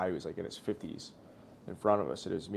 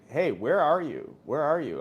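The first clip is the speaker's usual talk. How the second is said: mock yelling; 5 semitones higher, 6 dB louder than usual. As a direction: call out for someone missing, at half shout. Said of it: "I'm, like, yelling her name".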